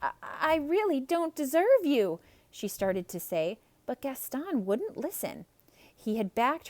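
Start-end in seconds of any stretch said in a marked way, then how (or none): 0.0-2.2 a hint of polite hesitant Belle; higher, polite stammer; politely. A narrator's reading. Belle politely refusing Gaston, higher and hesitant. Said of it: "Belle tried to say politely".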